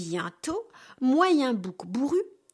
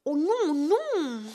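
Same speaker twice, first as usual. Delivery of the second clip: pleading goat; 4 semitones higher, slower than usual. Acted. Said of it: "supplie Moyen Bouc Bourru".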